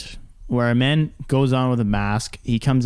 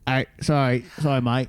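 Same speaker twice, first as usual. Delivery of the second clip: put-on British accent; 3 dB quieter than usual. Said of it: "You have to do it British".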